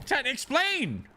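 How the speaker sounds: high, drawn-out demand; exasperated demand. Real, not acted. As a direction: stretch it out, insisting on an answer.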